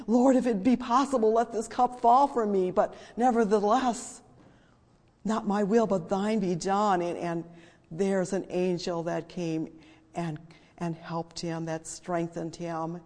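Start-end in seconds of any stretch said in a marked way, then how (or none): 0.1-7.0 loud, raised voice pleading to God; crying out in prayer. Retold or imitated. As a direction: imitate Jesus crying out to the Lord, high and loud, easing at the end. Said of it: "And he's, he's crying out".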